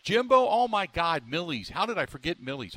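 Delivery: sudden excited realization. Real, not acted. Suddenly remembers Millie's Sausage.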